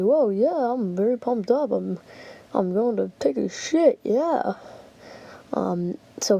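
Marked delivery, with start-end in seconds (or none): 0.0-4.5 lightly mimicking someone pumped up; mock announcement. Telling everybody about the bathroom trip, mock pumped-up voice. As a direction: announce it to everybody, mockingly eager. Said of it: "like, telling everybody".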